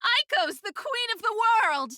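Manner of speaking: loud squealing victory chant; gleeful hollering. Retold or imitated. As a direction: crow like a child who just won. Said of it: "dance around hollering".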